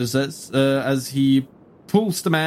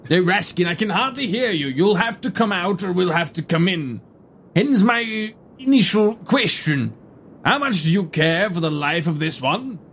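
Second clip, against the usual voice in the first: formal gentleman voice; 5 semitones higher than usual. Acted. Herodotus threatens the hidden Raskin.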